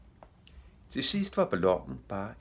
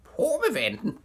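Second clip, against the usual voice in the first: high, loud parrot squawk; piercingly high bird cry; screeching parrot; 5 dB louder than usual. A narrator's reading. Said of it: "skreg papegøjen".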